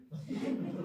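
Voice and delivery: quick quiet laugh at herself; a soft self-mocking laugh; little laugh at her own silliness; short laugh. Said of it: "Janie laughed aloud at herself".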